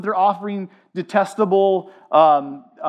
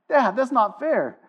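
put-on whining kid; 5 semitones higher than usual. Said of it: "my kid's famous line".

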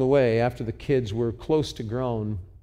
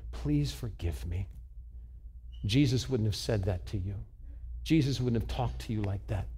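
retold apology; 2 semitones lower, 6 dB quieter than usual. Father retells apologizing to child.

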